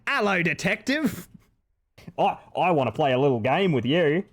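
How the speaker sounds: put-on Jigsaw in a broad Australian accent. Streamer replaying his old Jigsaw bit, in an Australian accent. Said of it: "Australian saw guy".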